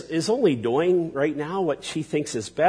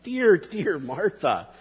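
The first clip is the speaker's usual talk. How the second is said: slow, tender and affectionate; endearing; slower than usual. Retold or imitated. Jesus lovingly addressing Martha, slow and tender. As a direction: linger on the "dear" lovingly. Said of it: "a term of intimacy and endearment".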